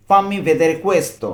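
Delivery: 'fammi vedere questo' joined in one slow line; now say it all together, very slowly; whole phrase slowly. Shown as a demonstration. Teacher joins the words for a learner, slow and smooth. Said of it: "একসাথে কি বলতে পারি?".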